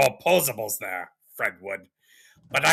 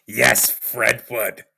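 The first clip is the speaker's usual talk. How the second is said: mock grand greeting; 3 dB louder, slower than usual. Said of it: "becoming a sea captain".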